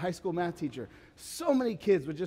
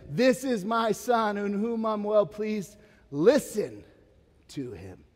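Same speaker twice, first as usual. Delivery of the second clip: voice of God; 5 semitones higher, 4 dB louder, slower than usual. Retold or imitated. God's words at the transfiguration.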